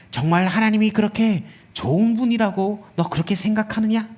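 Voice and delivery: lightly voiced tempter, a little softened; whispering tempter. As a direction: coax them with a mild, insinuating question. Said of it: "멋진 목소리로 와서 이렇게 속삭입니다". (살짝 낮춘 소리로 속삭이듯 유혹하는 말투)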